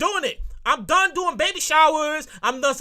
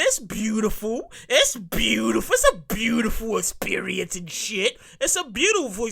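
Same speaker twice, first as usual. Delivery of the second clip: sarcastic gushing; 3 semitones lower than usual. Pretend. Mock gushing over pregnancy.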